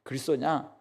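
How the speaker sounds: high, dismissive scoff; contemptuous sneer. Retold or imitated. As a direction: spit out his contempt. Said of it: "지금 이렇게 비방하는 것입니다".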